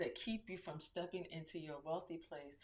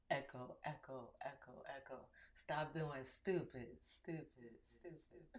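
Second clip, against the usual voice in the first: cave echo; 3 semitones lower, 5 dB quieter than usual. Pretend. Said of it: "I'm glad this part is echoing".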